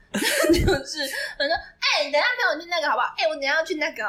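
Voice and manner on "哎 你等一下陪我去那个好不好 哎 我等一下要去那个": coaxing with a bossy edge; half-bossy whining. Retold or imitated. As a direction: whine sweetly but give orders. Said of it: "我的撒娇基本上也是半命令式的". (半命令式的撒娇)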